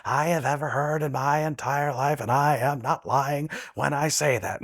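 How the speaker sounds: a hint of a solemn character actor; Paul Giamatti impression. Shown as a demonstration. Doing Paul Giamatti for the hosts, earnest. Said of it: "it becomes Paul Giamatti".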